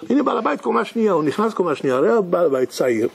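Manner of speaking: normal talking voice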